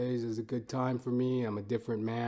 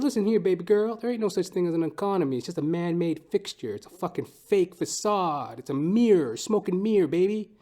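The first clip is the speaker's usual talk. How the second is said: put-on drunken lecturing; 6 semitones higher, 5 dB louder than usual. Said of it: "I said".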